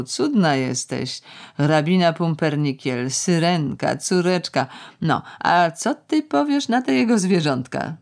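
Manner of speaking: sing-song mock sweetness about her husband; lightly voiced sarcastic older woman; mocking Nina. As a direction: tease the girl with sugary scorn.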